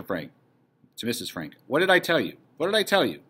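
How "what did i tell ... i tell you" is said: higher, exultant told-you-so; triumphant. Acted. Husband to wife after the invasion news, triumphant. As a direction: celebrate being proved right.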